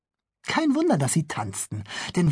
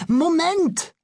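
higher, louder cry of Moment; loud call; 13 semitones higher, 4 dB louder than usual. Acted. Bülle calls after the departing policemen. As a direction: call after them to stop. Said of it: "rief er".

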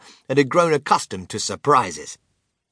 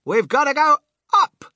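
high, loud insistence; yelling back; 7 dB louder than usual. A narrator's reading. Inventor insisting on climbing higher, high urgent yell. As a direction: insist at a yell over the wind. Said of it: "Mister Wonka yelled back".

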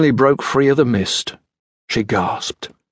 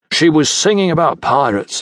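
arguing; 5 semitones higher than usual. Acted. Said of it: "he argued".

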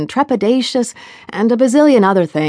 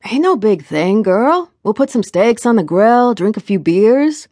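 higher, breezy Jamaican lilt; easygoing Jamaican accent; 3 semitones higher than usual. Acted. Boyfriend proposes steaks and beers, easygoing Jamaican accent. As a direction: toss out a casual invitation in a Jamaican accent. Smile returns, playful accent is back.

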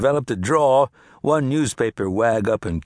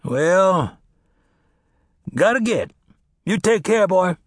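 put-on grumbling old farmer, slow and dry; 8 semitones higher, 4 dB louder than usual. Old farmer answering Cass, wry and grumbling. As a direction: drawl it like a sour old sharecropper.

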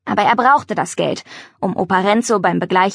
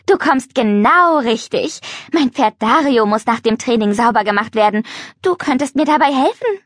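flirty; 3 semitones higher than usual. Acted. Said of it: "Aufreizend wippte sie".

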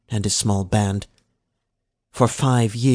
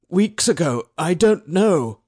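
unsure mumble; 8 semitones higher, 3 dB louder than usual. A narrator's reading. Slave answers, unsure.

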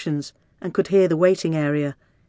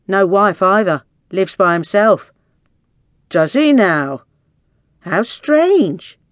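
pointed gossiping; 3 semitones higher, 6 dB louder, slower than usual. A narrator's reading. Women's tirade about the doctor.

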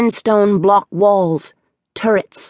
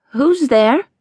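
wobbly voice; 8 semitones higher than usual. Acted. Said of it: "My voice was wobbly".

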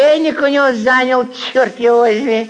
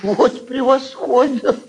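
sarcastic laugh; 3 semitones higher than usual. Acted. Mocking laugh at accusation.

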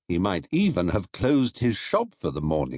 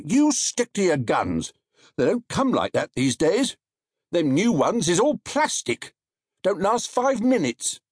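lightly raised, chatty market trader voice; a hint of a gossipy stallholder; market onlooker; 9 semitones higher than usual. A narrator's reading.

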